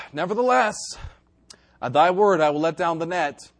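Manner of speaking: sigh, then a mildly weary concession; reluctant Peter. Acted. Peter grudgingly answering Jesus, mildly reluctant. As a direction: give in with a sigh and pauses. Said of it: "how I know Peter's tone is".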